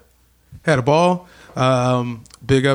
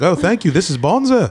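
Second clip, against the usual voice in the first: put-on Australian accent; 5 semitones higher than usual. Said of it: "she's like".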